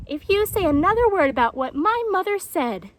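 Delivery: high, loud, threatening jaguar; Painted Jaguar. A narrator's reading. Jaguar threatens the tortoise, high and loud. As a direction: cut him off with a threat.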